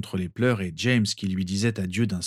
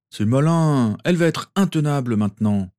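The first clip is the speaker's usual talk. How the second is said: higher, louder mock complaint; teasing other Harry; 5 semitones higher, 5 dB louder than usual. A narrator's reading. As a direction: tease him, pushed up. (l'autre Harry taquin, plus fort et plus aigu)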